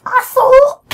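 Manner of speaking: very high, loud squeal of an insult; shrill character insult. Acted. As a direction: screech it like a furious little cartoon brat. Voicing a game character's insult.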